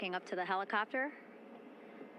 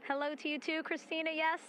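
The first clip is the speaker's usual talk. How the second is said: higher, lifted, excited voice; delighted greeting; 7 semitones higher than usual. Real, not acted. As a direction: greet a returning astronaut with real excitement. Greeting astronaut waving at cameras.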